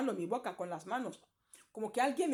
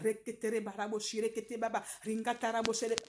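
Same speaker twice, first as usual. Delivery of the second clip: flowing rhythmic tongues babble, cut off; imitating speaking in tongues. Testifying how she prayed before people, flowing tongues. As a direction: rattle off the tongues as if unstoppable. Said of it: "empezaba a hablar".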